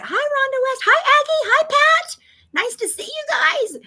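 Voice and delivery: high, loud chirpy hellos; chirpy welcome to newcomers; bright greeting. Real, not acted. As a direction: break off to sing out hellos. Greeting new viewers mid-story.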